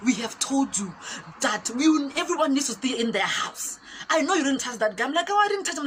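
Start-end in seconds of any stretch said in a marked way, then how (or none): 0.1-5.1 louder, emphatic telling-off; mock official reprimand, higher and louder; imitated soldier's scolding. Soldier scolding residents, acted. 5.3-5.9 high, loud mock protest; acted defensive squeal of denial; protesting innocence. Her protest to soldier, acted.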